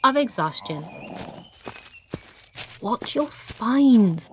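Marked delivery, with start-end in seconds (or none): 2.8-4.3 character voice. Acted. Character warns in odd voice.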